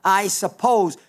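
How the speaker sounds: lightly imitated smart-aleck remark, falling at the end; a touch of know-it-all in the retelling. Simon answering Jesus, mildly smart-aleck. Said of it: "kind of a super smart aleck way".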